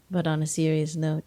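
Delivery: usual speaking voice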